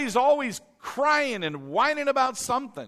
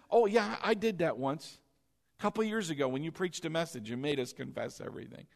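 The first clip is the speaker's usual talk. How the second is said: mock casual excuse; 5 semitones lower, 6 dB quieter, faster than usual. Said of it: "Not just".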